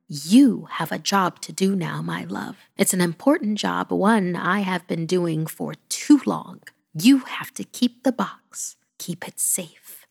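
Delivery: tender charge fading to a whisper; lightly voiced granny. Granny entrusting the box to the child, fading whisper.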